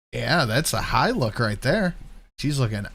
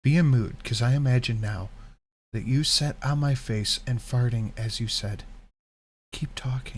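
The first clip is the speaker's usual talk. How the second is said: sexy voice. Pretend. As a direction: read it sultry and seductive. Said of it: "I'm doing sexy voice".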